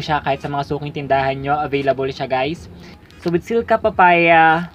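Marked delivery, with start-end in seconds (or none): 3.2-4.7 slow, measured ad-style read; deliberate product description; product label read aloud. Real, not acted. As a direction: read the packaging claims out slowly.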